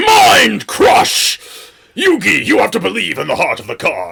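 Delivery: dramatic, loud, rough-edged, belted cry with big swoops. Quoting the Yami Yugi voice heard in the dub: Yami Yugi voice. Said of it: "My brain just keeps going".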